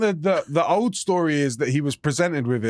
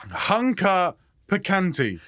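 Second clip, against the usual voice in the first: laughing; slower than usual. Retold or imitated. Mocking name slowly, laughing.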